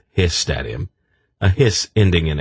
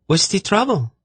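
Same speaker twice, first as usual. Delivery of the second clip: sharp female voice. A narrator's reading. Tzadi scolding the snake bottle, sharp high voice.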